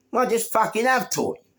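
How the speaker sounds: high, exasperated comeback; retold angry retort. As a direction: act out snapping back at the bully. Acted retort, repeated.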